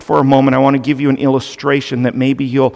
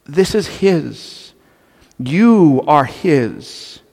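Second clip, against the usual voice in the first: calm voice of God; much slower than usual. Pretend. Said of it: "And God going".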